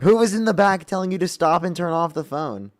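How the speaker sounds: incredulous laughing question; laughing disbelief. Real, not acted.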